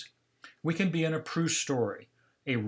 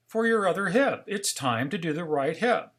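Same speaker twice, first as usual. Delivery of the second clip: higher, mildly concerned reminder; a little concerned; 4 semitones higher than usual. Retold or imitated. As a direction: remind him with a touch of concern. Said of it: "now getting a little concerned".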